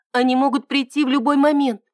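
uneasy warning, glancing round; worried. A narrator's reading. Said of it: "Ида встревоженно оглянулась".

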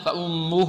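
فأمه very slowly with the doubled mim hummed; slow tajweed recitation; ghunna demo. Shown as a demonstration. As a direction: hold the nasal on the mim of فأمه. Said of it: "ميم مشددة غنة".

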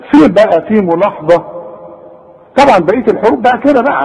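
normal talking voice

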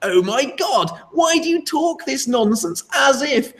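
high-pitched mocking snob voice, drawn out; mock disgusted scoff, high and slow; snobby, disgusted leftist. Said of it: "snobby leftists would sort of look down their nose and sort of snort in disgust".

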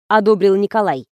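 ordinary delivery

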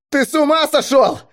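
very high, loud panicked shout; cracking scream. A narrator's reading. Driver screaming at his commander, voice breaking. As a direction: scream until the voice nearly breaks. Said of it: "закричал Грач, срываясь".

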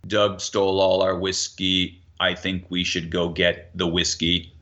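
slow, low, flat statement with no conviction; flat, unconvinced. Shown as a demonstration. Mob leader announcing the theft with no conviction, flat. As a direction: say it like you don't care if anyone believes you. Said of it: "No one's gonna rise up".

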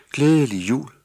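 high, loud dreamy greeting; dazed elf girl. A narrator's reading. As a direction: wake up and say it in a daze. (en omtåget nissepige)

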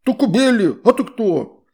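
high, loud outraged water-spirit voice; indignant shout. A narrator's reading. Water spirit indignant about Astrid's mother, high and loud. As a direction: cry out in scandalized outrage.

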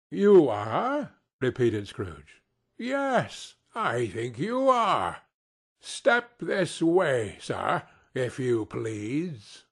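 slow, drawn-out mock menace; lightly voiced stern old boss; mock-stern Scrooge. Scrooge pretending to threaten Bob, slow mock menace.

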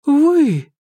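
high, rising stunned question. Acted. Irma asks Makar, high and stunned. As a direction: realise it all at once. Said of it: "потрясённо проговорила Ирма".

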